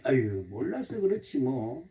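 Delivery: low, slow, soft letting-go; gentle, resigned understanding; forgiving intonation. Shown as a demonstration. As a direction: soothe yourself with a long "아유". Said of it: "이 말의 억양이 참 중요해".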